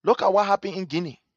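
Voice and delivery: loud mocking mimicry of foreign partners; mocking noisy partners. To listeners, mimicking noisy international partners loudly. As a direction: ham up their fuss. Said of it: "These people that were making noise".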